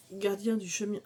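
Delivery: "Gardien" said in the masculine form, cut short; wrong title. Shown as a demonstration. Vlogger misreads her gift's title, "Gardien" said hastily. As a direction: stumble on "Gardien" before correcting it. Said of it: "Gardienne du chemin sacré".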